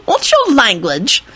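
high, slow amused chiding; giggly. A narrator's reading. Sludge chides Timothy's swearing, giggling. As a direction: draw it out, amused. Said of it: "Sludge giggled".

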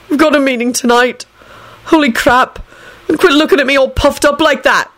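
high-pitched heated outburst. A narrator's reading. Neville telling off smug Trevor, heated. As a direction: snap at him in agitation. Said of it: "he added heatedly".

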